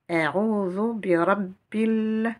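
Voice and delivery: bi rabbil run together, the final l held; linked words. Shown as a demonstration. Teacher showing learners the liaison, linked and drawn out. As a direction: recite slowly, linking rabbil onward. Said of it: "je fais la liaison".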